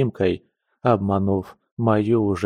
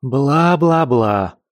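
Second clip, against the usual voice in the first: slow, drawn-out mocking bla-bla; taunting blah blah, slowed right down; mocking growl; 5 semitones higher, 4 dB louder, much slower than usual. A narrator's reading. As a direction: brush him off with a sneer. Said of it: "прорычала Кваз".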